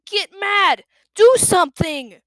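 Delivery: loud, high urgent push; urgent self-urging. A narrator's reading. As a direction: shout at yourself to fight. Urging himself in thought.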